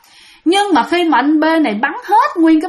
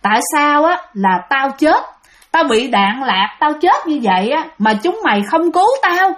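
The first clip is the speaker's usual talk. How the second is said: mildly angry reproach, pitch often raised; fierce accusing; 3 semitones higher than usual. Acted. Possessed soldier confronts comrades who left him dying, mildly fierce. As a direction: reproach them as a wronged dead man, lightly acted. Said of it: "gương mặt rất là hung dữ và nói".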